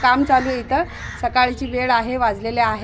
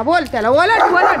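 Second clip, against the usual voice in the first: urging the dog; 4 semitones higher, 7 dB louder than usual. Real, not acted.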